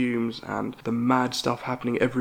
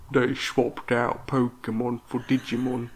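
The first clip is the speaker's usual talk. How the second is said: put-on slow, gravel-toned six-year-old like a chain-smoker; a sulking kid with a smoker's rasp; slower than usual. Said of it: "that's what he sounded like ... smoking cigarettes".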